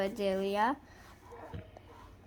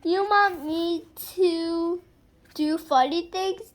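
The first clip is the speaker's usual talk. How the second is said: lightly voiced question; 5 semitones higher, 5 dB louder than usual. Child asks in a voice.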